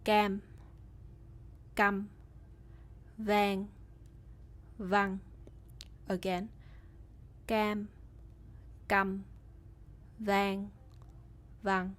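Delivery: long "cam" against short, abrupt "cam"; minimal pairs. Shown as a demonstration. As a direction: contrast long vowels with short, sharp ones. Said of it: "hear the difference between these pairs".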